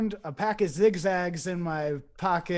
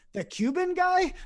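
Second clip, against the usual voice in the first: much higher, baffled mock disbelief; incredulous question; 12 semitones higher than usual. Puzzled man questioning the voice about Castro, mock incredulous. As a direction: pitch it way up, acting out confusion.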